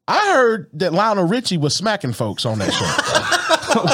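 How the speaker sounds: gossiping through laughter; laughing. Real, not acted. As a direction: giggle while spilling the rumor.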